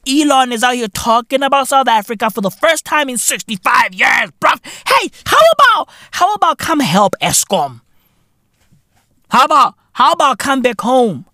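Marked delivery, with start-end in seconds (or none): 4.9-7.8 calling out. Pretend. Calling out to Elon.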